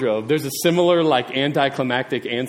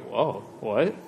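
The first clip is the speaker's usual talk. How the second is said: voiced disciples' shock; 4 semitones lower, 5 dB quieter than usual. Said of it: "They're like".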